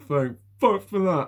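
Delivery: high, laughing exclamation; laughing, mock relieved; laughing relief. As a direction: blurt it out through a laugh. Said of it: "And I went".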